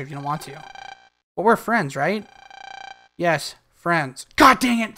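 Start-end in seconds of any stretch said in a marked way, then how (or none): 4.4-5.0 frustrated. Real, not acted. Frustrated at friend zone.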